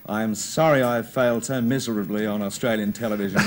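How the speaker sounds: mock American accent, lightly put on; Don Lane's American accent. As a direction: read it out as a mock American confession. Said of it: "With an American accent?".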